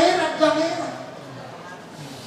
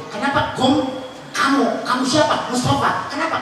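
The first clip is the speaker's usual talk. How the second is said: lightly acted host, higher-pitched questions; questioning host; 4 semitones higher than usual. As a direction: answer the caller with short raised questions. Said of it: "bertamu pada saya".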